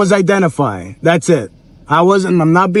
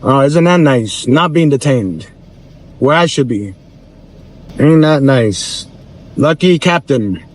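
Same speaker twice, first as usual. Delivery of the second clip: slow, lower sarcastic drawl; 4 semitones lower than usual. Real, not acted. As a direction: drip sarcasm about the captain. Mocks captain sleeping at home.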